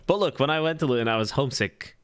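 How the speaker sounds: faint hint of a Welsh accent; quoting the manager, lightly Welsh. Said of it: "Pretend you're listening ... with a Welsh accent".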